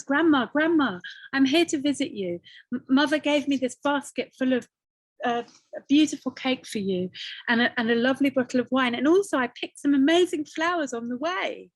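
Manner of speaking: bright and quick, happy to arrive; eager child at the door; excited girl. Acted. Girl greets grandma excitedly.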